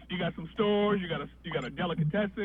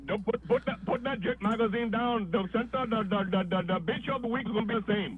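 newsstand guy; 4 semitones higher than usual. Retold or imitated. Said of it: "talks like this".

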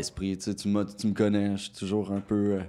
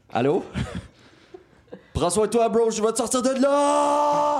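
calling out; 6 dB louder than usual. Acted. Calling out over bad connection.

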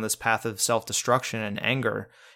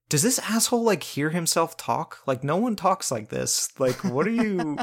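higher-pitched mock disbelief; baffled at how someone talks; incredulous viewer; 5 semitones higher than usual. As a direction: imitate an exasperated, incredulous viewer. Voicing a baffled viewer's reaction.

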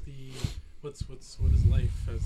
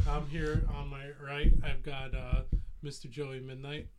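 wrestling announcer; 6 dB louder than usual. Acted. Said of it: "I'm trying to do a wrestling promo".

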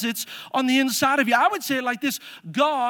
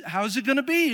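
plain; faster than usual. Retold or imitated. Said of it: "That's Mary's response".

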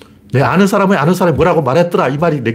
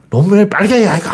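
Gyeongsang dialect shout; 6 semitones higher than usual. Retold or imitated. Geoje locals yelling in a restaurant, mock Gyeongsang shout. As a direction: ham up a furious Gyeongsang diner. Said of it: "소리를 지르대는 거야".

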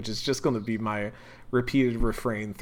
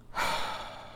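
long exasperated sigh; frustrated sigh; 6 dB quieter than usual. Real, not acted. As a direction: let out a heavy breath of frustration. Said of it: "I'm so".

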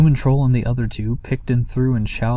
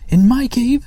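much higher and louder shriek; outraged scream; 13 semitones higher, 7 dB louder than usual. Acted. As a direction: screech it in disbelief. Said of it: "screamed Sniff".

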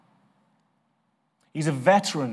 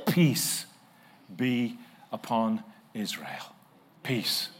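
slow verse reading; 4 semitones lower, 3 dB quieter, slower than usual. Shown as a demonstration. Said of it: "reading the verse slowly".

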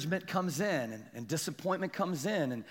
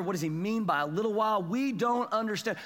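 mildly baffled retold questioning; lightly acted bewilderment; confused disciples; 4 semitones higher, 3 dB louder than usual. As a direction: voice the puzzled disciples. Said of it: "These guys are straight up confused".

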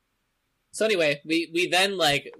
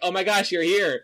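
high delighted gasp; thrilled surprise at a visitor; excited; 5 semitones higher, 6 dB louder than usual. Retold or imitated. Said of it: "And Yoda's like".

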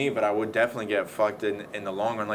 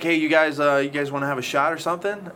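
eager call; 5 semitones higher, 4 dB louder than usual. Retold or imitated. Offering bikers a drink.

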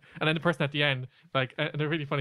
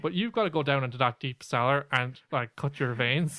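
lightly mocked Northern Irish accent; Barry. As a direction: send someone off in mock Northern Irish. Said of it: "That's our great Northern Ireland accent".

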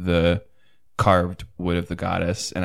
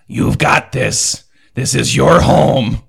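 1 encouraging shout; 5 semitones higher, 8 dB louder, slower than usual. Acted. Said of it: "he's going to shout through the fire".

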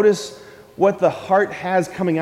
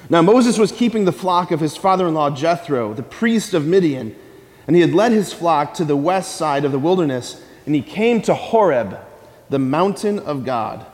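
measured, solemn reading of scripture. Acted. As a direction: read the passage with weight. Reads scripture aloud.

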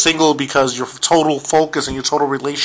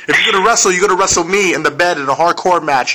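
laughing; 3 semitones higher, faster than usual. Real, not acted. Joking while laughing.

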